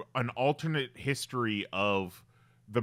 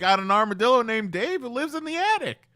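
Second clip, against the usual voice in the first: mock landlord voice; 11 semitones higher, 6 dB louder than usual. Joking as the landlord.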